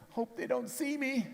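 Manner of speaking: small, high, hushed worry; scared whisper. Acted. Gideon hiding in the wine press, scared and hushed. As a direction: hide and hope nobody hears.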